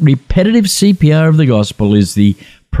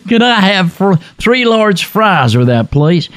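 slow careful ordering; 6 semitones higher than usual. Retold or imitated. Ordering slowly to be understood.

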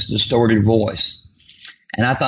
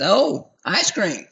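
sarcastic tease; 5 semitones higher than usual. Retold or imitated. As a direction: needle him about the ice cream. Wife teasing about ice cream.

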